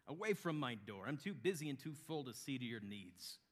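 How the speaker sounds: loud, high, irritated dismissal; angry innkeeper. Acted. Innkeeper shutting out a desperate traveler, angry dismissal. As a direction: drive them off the doorstep.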